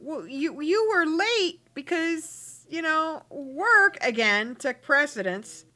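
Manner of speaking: exasperated mock complaint to his girlfriend; voicing a Sim. Boyfriend scolding his date for being late, mock exasperated. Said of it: "looking at her going".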